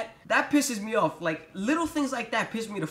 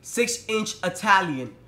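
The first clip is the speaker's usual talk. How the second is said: slow, carefully spelled-out order; clear, loud order; 3 dB louder, slower than usual. Retold or imitated. Ordering at the counter, slow and deliberate. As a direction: enunciate the order to the cashier. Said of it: "I say very clear voice and a loud voice".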